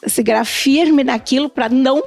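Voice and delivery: usual speaking voice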